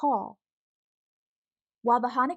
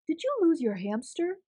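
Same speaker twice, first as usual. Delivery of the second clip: calling out; 6 semitones higher than usual. Acted. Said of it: "he called".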